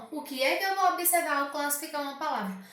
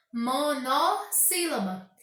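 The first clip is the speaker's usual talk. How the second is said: termo silabado; much slower than usual. Shown as a demonstration. Professora separa o termo em sílabas.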